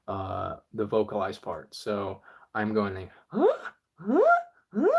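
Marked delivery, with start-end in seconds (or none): 3.3-4.9 smooth inward bass. Shown as a demonstration. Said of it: "for the really smooth one".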